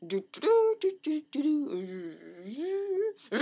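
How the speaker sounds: high little "doo doo" driving noises; playful toot-along while pretending to drive; carefree driving doo-doo. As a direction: hum along obliviously in nonsense syllables.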